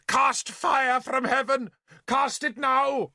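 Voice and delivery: high, slow wailing plea; frantic prayer. Acted. Kneeling bishop begs heaven for fire, high and slow.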